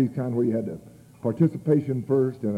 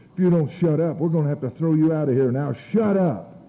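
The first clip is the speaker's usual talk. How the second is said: acted stern warning, pitched up; a little hostile; 4 semitones higher, 3 dB louder than usual. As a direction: threaten to throw him out, firmly. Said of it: "And he was a little hostile".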